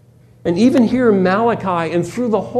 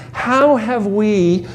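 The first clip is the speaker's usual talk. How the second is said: sarcastic; 3 semitones higher, slower than usual. Retold or imitated. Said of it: "Notice the sarcasm here".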